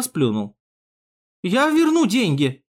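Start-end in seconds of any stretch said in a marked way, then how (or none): 1.4-2.6 high, slow, pleading promise; dragged-out, frightened plea; nervous stammer, understated. A narrator's reading. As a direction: promise anxiously under threat. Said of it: "заикаясь, сказал Фриц".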